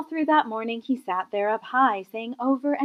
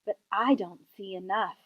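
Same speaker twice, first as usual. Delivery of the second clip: frowning king, lightly voiced. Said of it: "he said with a frown".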